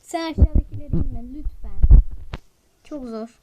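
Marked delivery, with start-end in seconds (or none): 0.0-2.0 repeated louder and more urgent; insist, say it again louder; louder pleading. Real, not acted. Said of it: "repeat of request".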